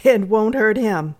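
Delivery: mildly impatient housekeeper. Acted. Housekeeper dismissing the girl's concern, mildly impatient. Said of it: "said the housekeeper rather impatiently".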